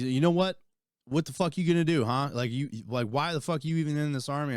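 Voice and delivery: a retold ass-chewing, half-acted; mock berating.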